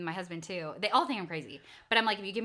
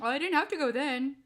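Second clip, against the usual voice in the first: put-on higher-pitched, airy kid denial; lightly voiced child backing out; imitating daughter; 5 semitones higher, 3 dB louder than usual. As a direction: play the kid changing her mind. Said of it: "My daughter, though".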